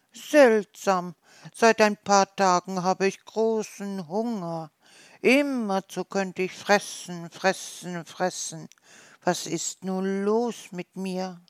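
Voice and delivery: a small hedgehog puzzled by his hunger; puzzled little hedgehog. Acted.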